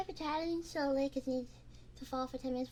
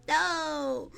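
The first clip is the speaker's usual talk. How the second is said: normal talking voice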